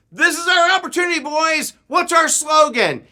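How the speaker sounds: high, loud scout leader's rallying shout. Retold or imitated. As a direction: shout to rally your troop. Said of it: "I started hearing shouts".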